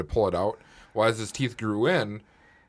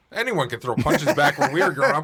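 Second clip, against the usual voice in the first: laughing through the line, a bit louder; 4 semitones higher, 4 dB louder than usual. Real, not acted. To cohosts, teasing about childhood fights, laughing. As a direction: toss it back with a laugh.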